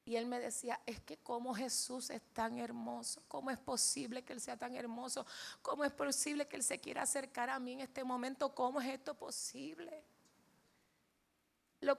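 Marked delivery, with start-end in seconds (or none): 0.9-10.0 loving awe. Retold or imitated. Father marvels at how beautiful Jesus is, tearful loving awe. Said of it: "papi siempre estaba llorando en la mesa de amor".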